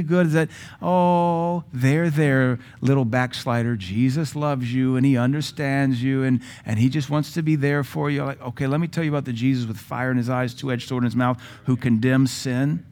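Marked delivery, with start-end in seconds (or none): 0.8-8.2 mock soothing. Mocking soft seeker-friendly Jesus.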